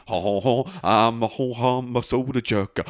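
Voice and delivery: jolly old shopkeeper, lightly voiced; ho-ho chuckling shop owner; a hint of a jolly soda jerk; soda jerk character. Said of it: "Mister Soda Jerk".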